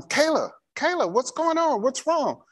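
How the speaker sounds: high alarmed calls of "Kayla, Kayla"; father on the phone hears his daughter screaming, alarmed high calls; panicked calling. Retold or imitated. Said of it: "And I'm".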